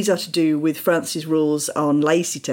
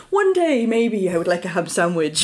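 dreamy wish. Retold or imitated. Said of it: "you're like".

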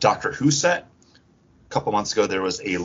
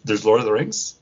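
put-on surprised girlfriend; 7 semitones higher than usual. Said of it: "got her, like".

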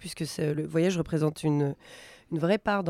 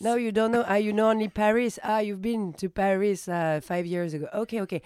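lightly acted, higher chatty English; playacted backpacker small talk; 4 semitones higher than usual. Backpacker answering imagined hostel tourists, playacted small talk. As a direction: react to imagined replies, a little higher. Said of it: "Elle fait tous les personnages".

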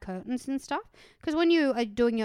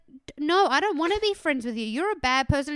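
louder, higher angry telling-off; angry retort; 5 semitones higher, 4 dB louder than usual. Retold or imitated. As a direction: snap back at him with real heat. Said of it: "I got so angry at him".

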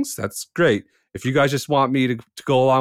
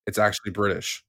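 retold whisper; 5 semitones lower, 6 dB quieter than usual. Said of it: "Gonzo has to whisper to him".

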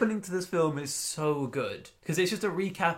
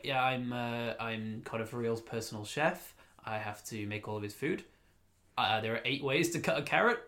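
chef's interview voice; 4 semitones lower, 4 dB quieter than usual. Retold or imitated.

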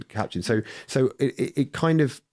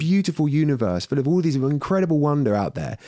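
ranting at a poser; 3 semitones higher than usual. Retold or imitated. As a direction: vent at him as if he's in front of you, half acted. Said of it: "And I'm like".

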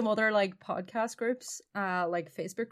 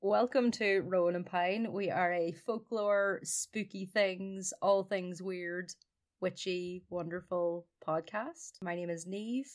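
slow, softer intro voice; podcast intro; 3 dB quieter, slower than usual. Acted. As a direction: announce the show slowly.

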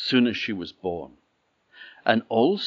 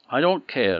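raised, louder defiant king; angry king; 6 semitones higher, 7 dB louder than usual. Acted. King to queen, refusing her warning, angry and loud. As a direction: snap back at the queen.

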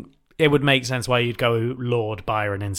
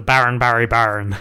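a touch of Northern Irish; Northern Irish accent; 4 semitones lower than usual. Real, not acted. Co-host playing with the rhyming name, a bit Northern Irish. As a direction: let it slip into Northern Irish. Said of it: "comes out a bit Northern Irish".

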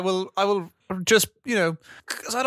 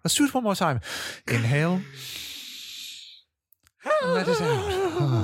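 calming. Acted. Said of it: "take a moment to breathe together".

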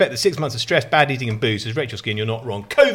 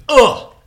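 loud high frustrated ugh; frustrated groan; 11 semitones higher, 11 dB louder than usual. Real, not acted. Groaning about scaffolders' noise.

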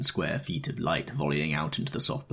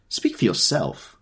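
louder, slow angry retort; mild violent outburst; violent cry; 5 semitones higher, 5 dB louder, slower than usual. A narrator's reading. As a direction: snap back, slowed and raised. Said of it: "cried Miss Baedeker violently".

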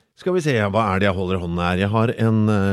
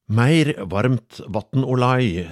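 put-on old midwife; 4 semitones higher, 5 dB louder, slower than usual. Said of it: "sier gamle jordmor Anna".

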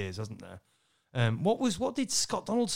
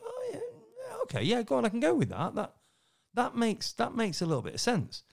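voicing Ricky laughing; 10 semitones higher than usual. Ricky's reaction voiced in story.

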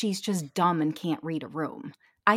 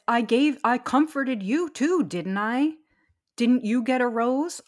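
put-on scolding a child; 4 semitones higher, 3 dB louder than usual. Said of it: "he says".

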